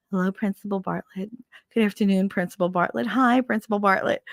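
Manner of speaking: lightly mimicked teachers greeting the boss; mock-dutiful chorus of staff greetings. Teachers lined up as the strict principal walks in, dutiful greeting.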